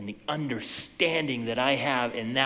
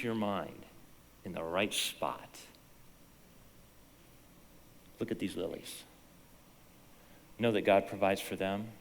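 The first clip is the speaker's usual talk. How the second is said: gentle reassurance; 2 semitones lower, 4 dB quieter than usual. Acted. Jesus calming his worried disciples, gently. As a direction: ease them into calm. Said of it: "No, he says".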